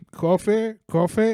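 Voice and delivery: put-on drunk guy asking. Barista imitating the drunk man who keeps asking for coffee, high drunk voice. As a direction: ask like a confused drunk.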